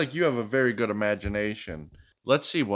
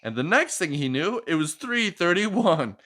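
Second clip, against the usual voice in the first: lively picture-book read-aloud; reading to a child; 3 semitones higher than usual. Acted. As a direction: read it like a bedtime story for a little one.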